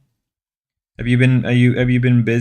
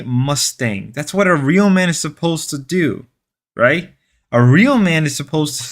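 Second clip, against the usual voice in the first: mock indignation, hammed-up conviction; joking; 3 semitones higher than usual. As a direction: insist with pretend outrage, taking the bit too far. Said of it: "I know I'm joking".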